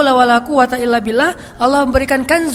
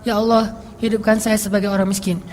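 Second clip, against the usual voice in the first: quoted prayer; 4 semitones lower, 3 dB quieter than usual. Retold or imitated. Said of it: "Nabi berdoa".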